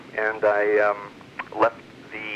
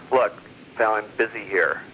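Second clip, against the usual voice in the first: cool, unbothered retort in his usual voice; very calm. Retold or imitated. Storyteller to furious car owner, calm and unbothered. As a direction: stay flat and dismissive while scratching the car. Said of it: "I just very calmly said".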